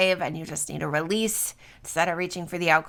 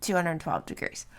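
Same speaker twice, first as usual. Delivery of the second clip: yawning. Real, not acted. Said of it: "I yawned".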